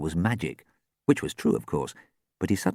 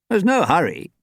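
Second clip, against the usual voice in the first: easygoing, higher-pitched remark; friendly and unhurried; amiable; 11 semitones higher, 4 dB louder than usual. A narrator's reading. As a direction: reassure them amiably. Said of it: "he remarked amiably".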